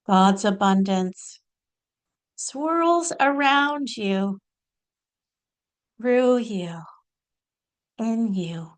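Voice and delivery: measured channeling delivery with long pauses; deliberate, spaced-out spiritual address; channeled spiritual teaching. Acted. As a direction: deliver it as a guru's message, phrase by phrase. Channels Babaji's spiritual message.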